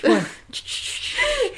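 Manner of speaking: high ringing phone noise; old rotary phone. Pretend. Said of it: "that was my impression of a rotary phone".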